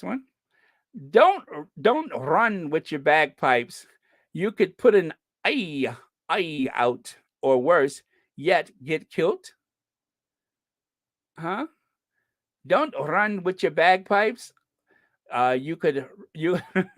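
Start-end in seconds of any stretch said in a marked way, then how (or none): 1.1-9.5 put-on Scottish accent. Host reading a bagpipe warning joke, Scottish accent. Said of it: "trying to do a Scottish accent". 12.7-16.6 put-on halting amateur Scottish accent. Host retrying the bagpipe joke, Scottish accent. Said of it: "trying to do a Scottish accent".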